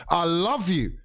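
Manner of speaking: high, slow mock quote with a laugh in it; Logan from Succession. Quoting Logan's put-down at Arsenal, slow and laughing. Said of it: "in the words of fucking Logan from Succession".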